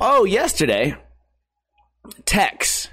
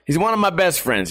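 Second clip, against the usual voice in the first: usual speaking voice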